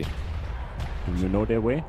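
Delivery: low, very slow meme voice. Pretend. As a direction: drawl it like the meme creature. Joining the way meme.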